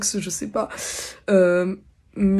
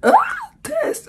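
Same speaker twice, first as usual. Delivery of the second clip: squeaky, cracking voice with almost no sound left; broken voice; 7 dB louder than usual. Real, not acted. Vlogger testing her lost voice, cracked and squeaking. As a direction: force words through a lost voice. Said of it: "Je n'ai plus de voix".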